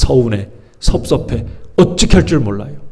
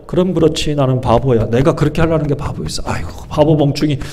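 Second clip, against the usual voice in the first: softer, mopey self-put-down; mock sulky sigh at yourself; a touch of self-pity, softly grumbled; 4 dB quieter than usual. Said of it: "이러면서 자기를 비하하는 거예요".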